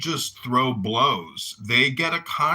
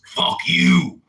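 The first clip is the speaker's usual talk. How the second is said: retold curse; 5 semitones higher, 8 dB louder than usual. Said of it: "And he says".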